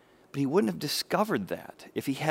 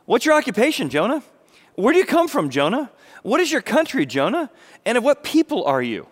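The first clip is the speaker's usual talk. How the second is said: higher, louder rapid-fire questions; the sailors demand answers from Jonah, louder and higher; sailors grilling Jonah; 8 semitones higher, 5 dB louder than usual. Acted.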